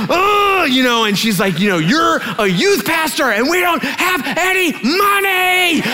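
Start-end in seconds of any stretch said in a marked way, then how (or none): 0.1-0.7 very high mock wail of frustration; hammed-up furious cry; rage-tears wail. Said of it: "these were rage tears". 1.8-5.8 high, wailing mock tirade; hammed-up tearful shriek, climbing higher; rage tears. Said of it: "these were rage tears".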